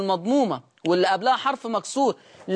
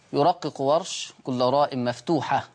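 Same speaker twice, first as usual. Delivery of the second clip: slow dictation; 6 semitones lower than usual. Shown as a demonstration. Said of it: "يا ريت نتابع وندون".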